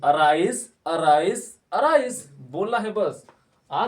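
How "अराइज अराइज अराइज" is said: loud repeat-after-me; loud drill. Shown as a demonstration. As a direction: call out अराइज three times, loud and clear. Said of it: "फिर से बोलिए".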